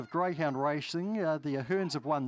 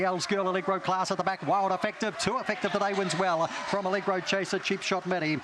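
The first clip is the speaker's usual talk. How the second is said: fast live race commentary; race call; 4 dB louder than usual. Acted. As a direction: call the race at full pace.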